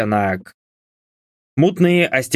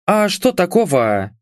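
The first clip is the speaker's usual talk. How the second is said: naive indignation; 6 semitones higher than usual. A narrator's reading. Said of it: "простодушно возмутилась Энджи".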